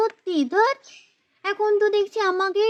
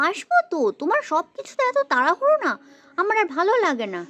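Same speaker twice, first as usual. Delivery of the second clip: fast irritated grumble; faster than usual. Acted. Wife grumbles at hurried husband.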